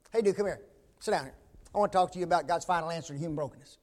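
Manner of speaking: fast, hammed-up churchy pitch to a buddy; mock stiff talk. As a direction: rattle it off like nobody really talks. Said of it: "Who talks like that?".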